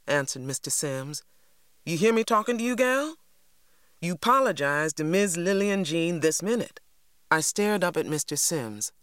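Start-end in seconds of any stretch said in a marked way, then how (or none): 1.8-6.8 bullying demand. A narrator's reading. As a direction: lean over a frightened child and bark orders. Mister Sims bullying a child.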